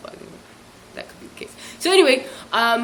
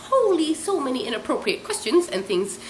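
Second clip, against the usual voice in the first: taken aback; 5 semitones higher than usual. Retold or imitated. Recounting her shock at the nosy questions, taken aback. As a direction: exclaim in disbelief.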